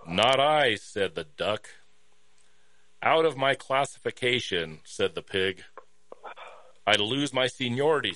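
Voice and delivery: measured storybook reading; story narration. Acted. Reading a hen fable to listeners, storytelling. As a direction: read the fable out, line by line.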